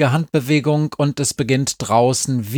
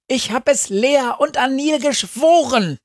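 gerufen; 14 semitones higher than usual. A narrator's reading. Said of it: "ruft Frau Schniggenfittig".

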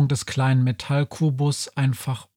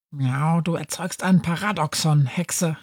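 tight-lipped; 3 semitones higher than usual. Acted. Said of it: "erwiderte Schrödinger schließlich schmallippig".

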